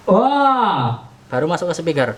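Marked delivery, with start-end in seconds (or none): 0.1-1.0 a short shouted "Wah!" into the mic; demo shout. Shown as a demonstration. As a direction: yell it to open the gate. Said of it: "kalau saya teriak". (teriakan contoh)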